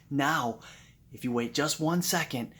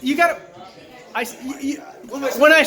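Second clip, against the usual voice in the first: laughing; 11 semitones higher, 10 dB louder than usual. Real, not acted. Flustered laughing stammer.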